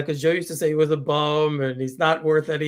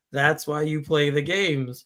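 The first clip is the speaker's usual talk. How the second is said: drawn-out Berman quote; 3 semitones lower, slower than usual. Retold or imitated. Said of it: "That's the famous Chris Berman quote".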